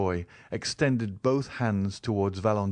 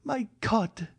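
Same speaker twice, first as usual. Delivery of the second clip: put-on higher, pleading young woman; Valentine's voice; 13 semitones higher than usual. A narrator's reading. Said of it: "said Valentine".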